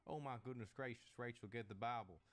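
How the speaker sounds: clutch the pearls, Oh my goodness gracious, lightly voiced; prim American lady. North American reacting to Aussie slang, prim and shocked. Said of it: "most North Americans would say".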